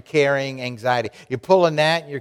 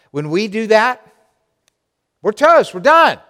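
exasperated; 8 semitones higher, 6 dB louder than usual. Acted. High emphatic.

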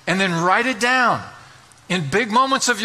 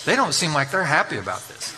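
laughing understatement; 4 semitones lower than usual. Retold or imitated. Dry aside at the angry board.

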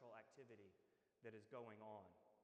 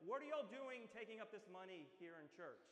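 raised, higher mock yell at the congregation; pretend yelling; 5 semitones higher, 6 dB louder than usual. Someone disrupting church offering yells out loud. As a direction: call out loud, indignant, half-acted. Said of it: "started yelling and said".

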